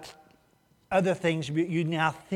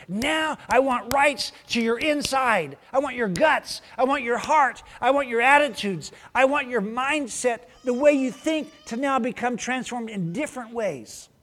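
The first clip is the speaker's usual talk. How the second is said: raised, earnest voice of Jesus claiming the heart; voicing Jesus; 5 semitones higher than usual. Preacher voicing Jesus to the crowd, higher and earnest. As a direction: plead it like Jesus asking for your insides. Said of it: "But Jesus goes".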